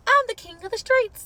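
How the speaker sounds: high, loud mock bragging; mocking boast. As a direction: puff it up like a show-off king. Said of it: "you were like".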